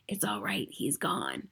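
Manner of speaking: breathy whisper, no voice; hushed all-clear. A narrator's reading. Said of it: "voice whispered back".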